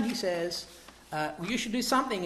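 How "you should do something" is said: calling out. Retold or imitated. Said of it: "he calls out".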